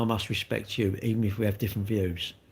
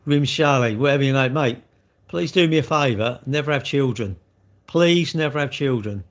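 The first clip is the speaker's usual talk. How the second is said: louder telling-off; 4 dB louder than usual. Real, not acted. Telling off a rude chat commenter.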